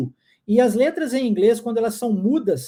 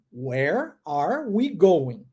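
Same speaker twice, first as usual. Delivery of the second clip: slow, careful English sentence; slow model sentence; 6 semitones lower, much slower than usual. Shown as a demonstration. Teacher slowly modelling the question for the class. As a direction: say it slowly for the students. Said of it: "Agora uma pergunta".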